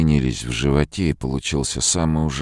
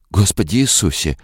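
whimpering; 7 semitones higher than usual. A narrator's reading. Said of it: "захныкала она".

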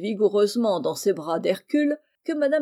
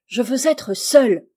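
loud, higher insistent shout; crying out; 4 semitones higher, 8 dB louder than usual. A narrator's reading. Injured mistress demanding that her servant leave, crying out louder. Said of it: "criait-elle".

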